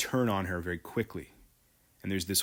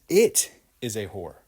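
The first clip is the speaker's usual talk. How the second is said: anguished; 5 dB louder than usual. Acted. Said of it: "In agony".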